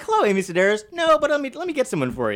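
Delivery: high mock helpful staffer; high eager staffer. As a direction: sound eager to help a celebrity. Young self voiced.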